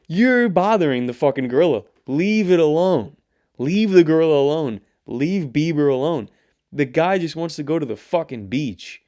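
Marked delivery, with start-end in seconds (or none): 0.1-6.3 louder, scolding the crowd; telling them off. Real, not acted. Ranting at paparazzi on Bieber's behalf, loud scolding. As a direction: leave him alone, you shout.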